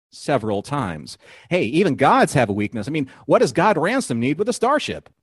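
TV recap announcer, deliberate phrasing. Pretend. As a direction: read it like a show's "previously on" narrator. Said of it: "my announcer voice on".

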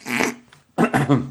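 throat catching, clearing; rough throat, needs clearing; frog in throat. Real, not acted. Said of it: "I had something in my throat".

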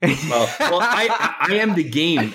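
laughing mock wrestler boast; wrestling promo. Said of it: "devolved into a wrestling promo thon".

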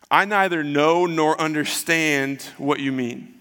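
slow, drawn-out feigned ignorance; playing dumb. Peter denies Jesus to servant girl, playing dumb. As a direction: act clueless, stretching the words out. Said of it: "He plays dumb".

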